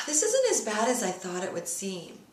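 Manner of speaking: a sigh of relief leading into the words. Pretend. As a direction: exhale heavily, then sound relieved. Tapping script, stress easing.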